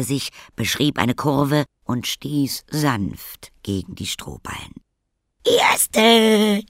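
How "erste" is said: much higher, louder triumphant cry; cheering. A narrator's reading. Karlchen cheering after winning the race. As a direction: crow the victory. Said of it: "jubelte Karlchen".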